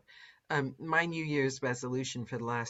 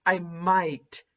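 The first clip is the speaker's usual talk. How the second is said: mock dedicated narrator; 4 semitones higher, 5 dB louder than usual. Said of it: "A narrator goes".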